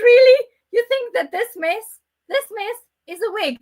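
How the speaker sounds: high, loud mock astonishment; be comically aghast at the suggestion; exaggerated disbelief. Guest retelling being asked about a wig, incredulous. Retold shock at wig comment.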